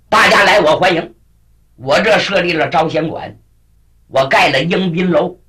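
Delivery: a hearty welcome from a storyteller's king; welcoming king. Acted. King tells the heroes they are welcome at his guest house, lightly voiced welcome.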